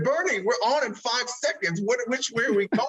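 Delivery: high-pitched, mock-panicked demand; acting out last-second urgency; retold urgent plea. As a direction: plead for an answer with seconds to air. Retold urgent plea before going live.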